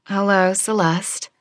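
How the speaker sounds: gentle. Acted. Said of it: "I said in a gentle voice".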